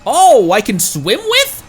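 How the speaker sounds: high, loud, slow wondering gasp of a question; loud high slow amazed oh; amazed delight. Real, not acted. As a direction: marvel out loud. Discovers swimming with whales.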